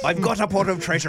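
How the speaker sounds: lightly hammed pirate, half laughing; mock pirate brag. Man joking after failed accent, pirate voice. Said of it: "It's a pirate".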